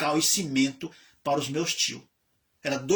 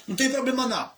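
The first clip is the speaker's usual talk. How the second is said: father comforting gruffly; 7 semitones higher, much faster than usual. Retold or imitated. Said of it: "e dizia".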